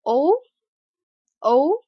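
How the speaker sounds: "o" as a rounded back vowel; British short O. Shown as a demonstration. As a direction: sound out "o" as in British hot, lips rounded. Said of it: "in the British English".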